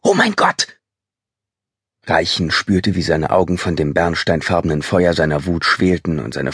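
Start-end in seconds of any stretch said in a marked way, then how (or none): 0.0-0.8 high-pitched woman's cry of horror; shrieked alarm. A narrator's reading. Woman spots the intruder in shadow, frightened cry. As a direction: cry out high in fright, without full volume. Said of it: "entfuhr ihr ein gellender Schrei".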